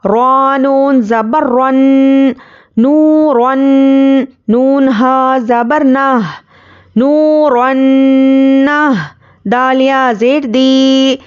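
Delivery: slow, measured sing-song spelling drill; Qaida recitation. Shown as a demonstration. Teacher spelling out Arabic words for learners, slow chant. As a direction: recite each letter and vowel mark slowly for students.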